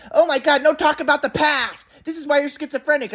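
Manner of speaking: high-pitched hammed-up exasperation; mock mom scolding. Son mimicking mom shutting him down, high mock scolding. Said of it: "my mom's like".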